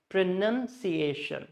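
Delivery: slow "Pronunciation", stressed on "nun" and "Asian"; two clear stresses. Shown as a demonstration. Teacher repeating it for learners, slow "Pronunciation" with both stresses. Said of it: "None here and Asian here".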